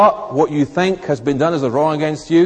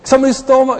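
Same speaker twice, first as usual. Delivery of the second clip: mock outrage; 9 semitones higher, 3 dB louder, much faster than usual. Telling half the church.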